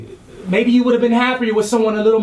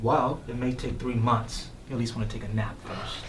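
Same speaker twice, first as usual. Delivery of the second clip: snippy; 10 semitones lower, 11 dB quieter than usual. Acted. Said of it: "No need to get snippy".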